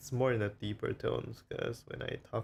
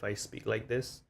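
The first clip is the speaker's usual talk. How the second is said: with-friends voice. Shown as a demonstration. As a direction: drop back down, talking to familiar friends. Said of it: "when I'm with my friends".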